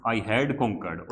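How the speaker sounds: very slow, stretched English phrase; slow read-aloud. Shown as a demonstration. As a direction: say it slowly so they remember. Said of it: "rereads key English phrase slowly".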